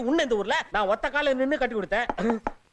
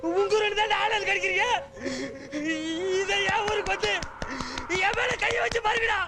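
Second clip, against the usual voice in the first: defiant threat; 4 semitones higher than usual. Acted. Beaten man threatens attackers.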